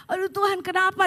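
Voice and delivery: exaggerated plaintive complaint; mock crying. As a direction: imitate someone wailing to God. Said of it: "nangisnya saya bukan begini".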